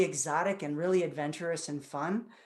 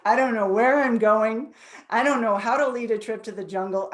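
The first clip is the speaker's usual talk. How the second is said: retold panic; 3 semitones higher, 7 dB louder than usual. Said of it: "I went right to fear immediately".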